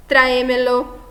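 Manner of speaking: "tráemelo" with a strong TRÁ, the rest light; early-syllable stress. Shown as a demonstration. Teacher giving an example of a sobresdrújula, "tráemelo" with first-syllable stress. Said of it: "quarta, quinta ou sexta sílaba mais forte".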